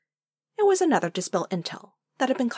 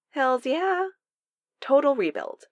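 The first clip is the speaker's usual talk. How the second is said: high, emphatic, punchy boast; proud excitement; 8 semitones higher, 4 dB louder, slower than usual. A narrator's reading. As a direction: brag about it with an enthusiastic lift. Darcy proudly confirms the bike runs.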